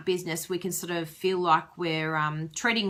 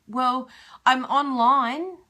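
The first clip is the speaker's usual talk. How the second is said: mock feeble excuse; 5 semitones higher, 5 dB louder, slower than usual. Voicing an excuse-making demonstrator.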